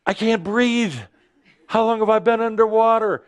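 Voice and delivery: high, alarmed gasp of realization; mock panic. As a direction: suddenly realize you can't breathe. Sudden realization underwater.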